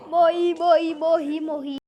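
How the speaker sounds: panicking gamer. Real, not acted. Gamer keeps dying in the game.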